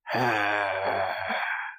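long, drawn-out growling sigh; Clint Eastwood. Retold or imitated. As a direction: exhale like a grumpy Western tough guy. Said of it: "Clint Eastwood just does a bunch of these".

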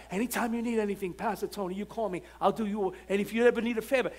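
quick, hushed eager offer; eager favor-offerer. Retold or imitated. Church member eagerly offering the pastor favors, quick and hushed. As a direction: rattle it off like a favor-seeker.

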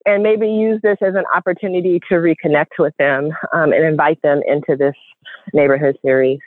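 breathless while walking; winded, talking between breaths. Real, not acted. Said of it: "I'm out of breath".

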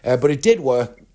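coughing through the words; speaking while half choking; choking on a drink. Real, not acted. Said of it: "I'm choking on my Pepsi Max".

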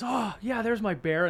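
pretend baby. Grown man playing a baby given his bear, babyish delight. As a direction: imitate a baby handed a toy. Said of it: "he's pretending to be a baby".

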